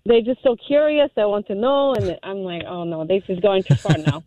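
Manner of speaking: conversational put-on Russian accent; fake Russian accent. Caller confessing the ruse to hosts, fake Russian accent. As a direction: keep up the pretend Russian accent. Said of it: "gotta get that Russian accent back".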